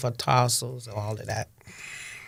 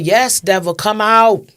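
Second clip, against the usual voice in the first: retold scream; 7 semitones higher, 7 dB louder than usual. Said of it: "And I screamed that".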